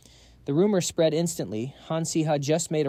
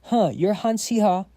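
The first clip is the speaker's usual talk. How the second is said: yelled; 6 semitones higher, 4 dB louder than usual. A narrator's reading. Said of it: "yelled out".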